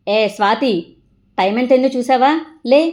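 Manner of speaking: loud mock-scolding mum calling out; mother's wake-up call. Mother calling Swathi awake, loud and scolding. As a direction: bark her awake like an impatient mother.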